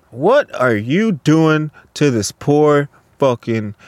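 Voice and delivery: slow, drawn-out mock reproach; lightly voiced coworker, dragging out each word; imitating critical coworker. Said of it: "he comes over, he's like".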